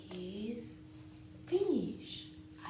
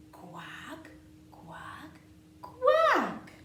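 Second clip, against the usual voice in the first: duck quacking; 9 semitones higher, 9 dB louder, much slower than usual. Pretend. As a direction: quack like a playful duckling. Duck refrain.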